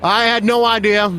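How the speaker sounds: lightly voiced Obama, pausing; a hint of Obama's halting delivery; Obama impression. Friend mimics Obama pausing mid-sentence. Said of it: "He pauses".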